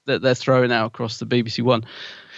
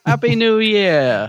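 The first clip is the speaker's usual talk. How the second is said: laughing toast; 9 semitones higher, 3 dB louder, slower than usual. Pretend. Mock toast with a sherry.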